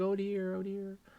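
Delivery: very high, welling-up, tearful voice. Voicing a drawn character who is really tearing up: mock tearful voice. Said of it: "like he's really tearing up".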